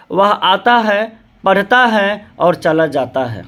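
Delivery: slow on वह आता है, then a clear pause before पढ़ता है; pause at the comma. Shown as a demonstration. Teacher showing students where the comma pause falls in the sentence. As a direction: read वह आता है slowly and stop at the comma. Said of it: "वाक्यांश देखिए".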